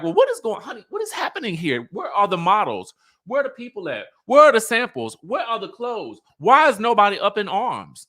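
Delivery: high, excited, demanding questions; mock Kenya. Kenya demanding where the models are, high and excited. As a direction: play the frantic host firing questions. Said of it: "And so Kenya's like".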